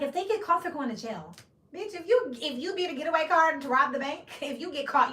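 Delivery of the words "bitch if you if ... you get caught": loud, high scolding blast; incredulous high shout; exasperated yell. Acted. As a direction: yell it at a reckless friend. Scolding a friend helping a robbery.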